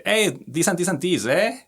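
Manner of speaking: high, loud mock Canadian moose with "eh" at the end; hammed-up Canadian "eh" voice; movie Canadian moose. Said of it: "And they say".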